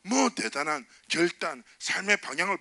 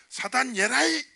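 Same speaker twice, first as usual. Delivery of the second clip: high, loud shout at Satan; battle cry; 8 semitones higher, 3 dB louder, slower than usual. Shown as a demonstration. Pastor shows the congregation how to strike back, shouted. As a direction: throw it like a counter punch. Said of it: "이렇게 한번 날려줘요".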